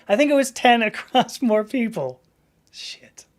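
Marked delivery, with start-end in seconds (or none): 2.7-3.2 muttered curse. Real, not acted. Swearing under breath at a mistake.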